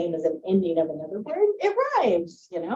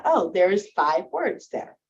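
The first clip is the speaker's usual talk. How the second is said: slow discovery; slower than usual. Shown as a demonstration. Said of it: "figuring out".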